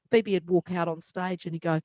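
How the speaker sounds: normal talking voice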